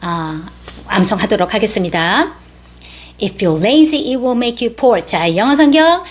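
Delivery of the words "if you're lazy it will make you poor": slightly quicker recitation for memorizing; a little faster. Shown as a demonstration. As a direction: recite it a touch more briskly. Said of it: "똑같은 문장인데 조금 빨리".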